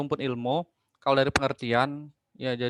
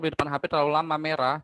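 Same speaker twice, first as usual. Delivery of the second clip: choppy broken-up call audio; radio breaking up; faster than usual. Real, not acted. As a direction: voice cutting in and out. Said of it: "Putus-putus, Pak". (suara putus-putus)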